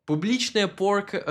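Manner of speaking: публичная порка with English accent and vowels; Публичная порка said like an English speaker; English-accented Russian. Shown as a demonstration. Telling viewers the Russian term, English-accented. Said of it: "was gonna say it with the English accent".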